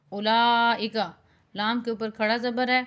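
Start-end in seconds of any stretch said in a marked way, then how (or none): 0.1-1.0 اولئک with a long held laa; stretched vowel. Shown as a demonstration. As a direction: lengthen the laa in اولئک, keep the ending short. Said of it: "کھینچ کر پڑھنا ہے".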